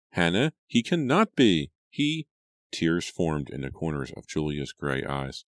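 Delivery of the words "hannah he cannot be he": high, loud protest breaking off; horrified disbelief. A narrator's reading. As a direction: plead in horror that it can't be. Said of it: "Julia cried in horror".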